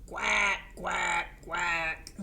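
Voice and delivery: lightly voiced quacking, first one loudest; a hint of a duck voice; playful duck quacks. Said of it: "And they say what?".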